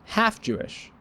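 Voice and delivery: high soft comic aside; high squeaky aside. Acted. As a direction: squeak it out as a punchline.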